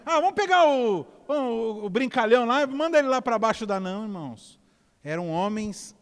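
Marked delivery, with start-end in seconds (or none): 0.1-3.8 lightly acted goofy braggart, pitched up; higher, playful mock voice; mock buffoon. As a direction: toss it out high and careless, like a joker. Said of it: "eram fanfarrões".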